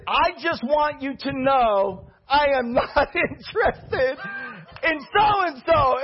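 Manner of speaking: a slow, careful, half-laughing announcement; drawn-out mock-serious declaration; slow, deliberate. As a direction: spell each word out slowly. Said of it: "she said".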